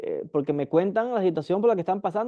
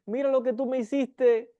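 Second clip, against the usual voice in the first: accusing victim complaint; 4 semitones higher than usual. Retold or imitated. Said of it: "y dicen".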